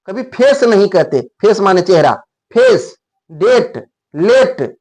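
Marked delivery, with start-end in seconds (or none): 2.5-4.8 फेस, डेट, लेट each with one pure long e; Indian English vowels. Shown as a demonstration. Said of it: "ऐसे नहीं कहते हैं".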